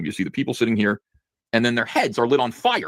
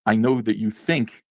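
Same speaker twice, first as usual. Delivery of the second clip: mock lecturing; slower than usual. Shown as a demonstration. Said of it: "the characters will always speak like this".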